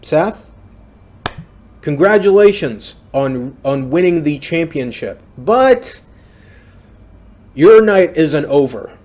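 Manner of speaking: mock wrestling promo, loud and rising; Vince McMahon promo. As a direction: ham up a booming boss reveal to the arena. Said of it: "And he says that".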